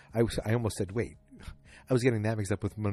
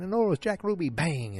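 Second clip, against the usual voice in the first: mock newscaster excitement; 8 semitones higher, 6 dB louder than usual.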